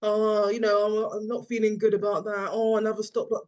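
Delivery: imitating a glum complainer; hammed-up droopy grumbling; mock sad moaning. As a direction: moan it like a deflated team member. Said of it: "don't put a sad emoji".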